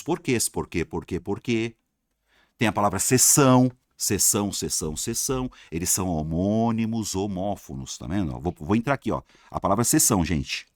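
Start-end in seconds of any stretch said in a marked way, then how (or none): none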